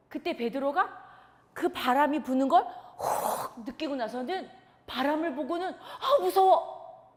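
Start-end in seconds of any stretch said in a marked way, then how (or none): 5.7-7.1 fearful thought. Acted. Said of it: "이 생각이 드는 거예요".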